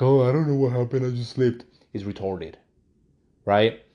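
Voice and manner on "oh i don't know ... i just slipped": innocent mock excuse. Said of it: "and you're like".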